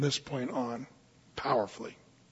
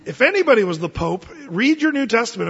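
emphatic preaching; 4 semitones higher, 5 dB louder than usual. Real, not acted. Preaching point.

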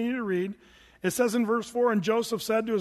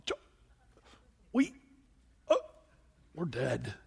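frightened brothers; 5 semitones higher than usual. Retold or imitated. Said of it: "they're realizing".

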